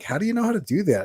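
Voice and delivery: quick, high-pitched mock disbelief; retold amazed question. Onlookers question the dancer, mock-amazed. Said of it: "And they're like".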